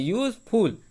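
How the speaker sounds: यूजफुल broken after यूज; यूजफुल as two separate syllables, यूज and फुल; pause between syllables. Shown as a demonstration. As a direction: stop briefly inside यूजफुल, before फुल. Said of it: "रुक रहे हैं".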